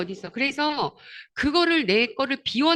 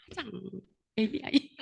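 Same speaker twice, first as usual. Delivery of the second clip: cutesy aegyo voice; 3 semitones lower, 10 dB quieter than usual. Retold or imitated. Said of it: "애교 섞인 목소리를 해요".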